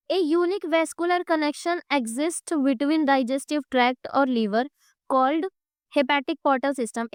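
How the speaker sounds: reads the book sentence slowly, word by word; slow textbook reading. Shown as a demonstration. Teacher reads the textbook definition to students, slowly. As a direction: dictate the textbook line so the class can follow.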